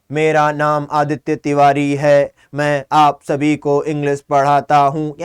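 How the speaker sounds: slow robotic monotone, low and unvarying. Shown as a demonstration. Teacher shows students what a monotone voice means, in a slow monotone. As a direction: drone it evenly on one low note, unhurried. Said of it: "monotone यानी कि".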